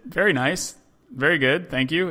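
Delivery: a hint of eager schoolboys reciting; boys' polite reply. Boys practicing English answer the tourist, mock eager politeness.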